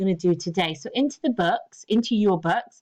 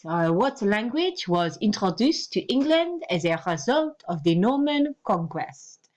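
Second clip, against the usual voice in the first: French accent. Shown as a demonstration. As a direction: question read in a mock French accent. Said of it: "A little clue by my accent".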